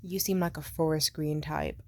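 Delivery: low-voiced mock of his guess; clueless man's answer. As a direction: imitate a guy in a dropped voice.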